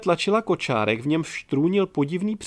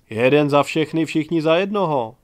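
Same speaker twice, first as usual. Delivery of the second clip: called out loud to the table; loud toast; 6 dB louder than usual. Acted. Drinking crowd toasting the victory, loud. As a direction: raise the cheer for everyone.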